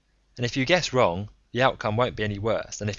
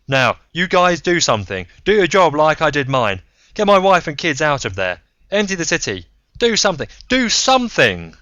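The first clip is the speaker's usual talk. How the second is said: louder and higher, rising to a frantic cry; panicked pleading; 9 semitones higher, 12 dB louder than usual. Acted. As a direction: beg them desperately to act. Braun's words pour out, panicked.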